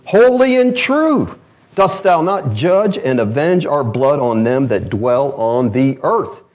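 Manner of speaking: crying out loud and high to the Lord. Acted. Martyrs crying out to God in a loud voice. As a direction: call it out like souls under the altar. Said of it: "They cried out with a loud voice".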